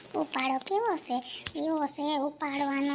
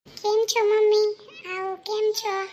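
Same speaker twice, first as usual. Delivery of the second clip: excited greeting; 3 semitones higher, 4 dB louder, slower than usual. Acted. Daughter greets her arriving mother.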